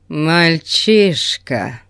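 slow, menacing dark lord; drawn out with cold menace; sinister voice. Acted. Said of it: "зловещим голосом сказал он".

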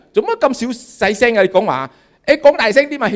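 mock the deaf old man shouting; loud complaint.

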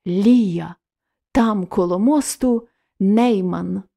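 as if her words still ring in his ears; echoing in memory. Acted. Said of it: "дзвеніло у вухах". (повільно, мрійливо, наче луна в пам'яті)

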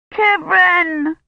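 put-on high, loud child's call; crying out. Agnes spots Kivrin and cries out loud. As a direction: call out in relief. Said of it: "Agnes cried".

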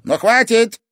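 very high, loud barked command; stern stop. Acted. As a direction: cut the quarrel short. Sensei stopping quarrel.

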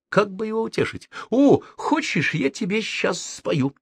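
mock-gentle, high coaxing. A narrator's reading. Friend mock-tenderly offers to sing to the host. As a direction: tease him tenderly like a child. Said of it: "чуть помягче спросил".

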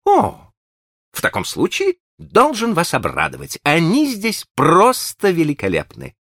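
high, bright eager host voice; cheerful high gentleman. A narrator's reading. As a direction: gush over an old friend, high. Green chatters.

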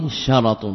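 شرط said "sharat", vowel on the ر; fatha on the ra. Shown as a demonstration. Teacher reading out the singular of أشراط, شرط with fatha on ر. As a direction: open the ر of شرط with a short a. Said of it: "بفتح الراء".

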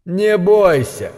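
slow, high mocking imitation; mocking parody. A narrator's reading. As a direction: parody a soothing reassurance. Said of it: "пародируя манеру Шэдуэла".

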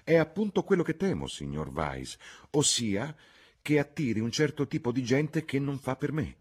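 agitated, high-pitched worrying aloud; excited. A narrator's reading. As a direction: blurt it out eagerly. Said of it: "esclamò Sir Harry eccitato".

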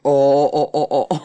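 dawning oh. Acted. Realisation exclamation.

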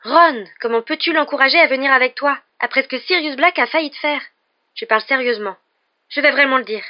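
high, loud, outraged reproach; heated, high-pitched telling-off; indignant scolding. A narrator's reading. Hermione scolds Ron and threatens.

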